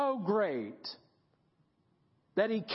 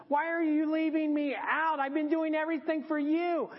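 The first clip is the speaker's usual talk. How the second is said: whiny voice; 2 semitones higher than usual. Acted. Elijah complaining to God about being left out, whiny. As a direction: whine it like a put-upon servant. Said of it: "Elijah gets a whiny voice".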